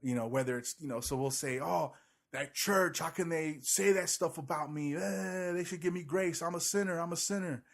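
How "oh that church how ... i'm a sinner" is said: mock whiny sinner. Mocking self-righteous churchgoer.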